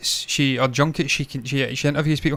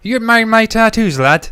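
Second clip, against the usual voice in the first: loud, high mock pirate voice; jokey pirate swagger; 8 semitones higher, 6 dB louder than usual. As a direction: play a hammed-up West Country pirate. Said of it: "That's what pirates spoke like".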